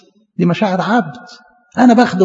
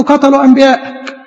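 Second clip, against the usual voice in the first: high, drawn-out wail of loneliness; Elijah's lament; 7 semitones higher than usual. Acted. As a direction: plead in a slow, high lament. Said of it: "قال له".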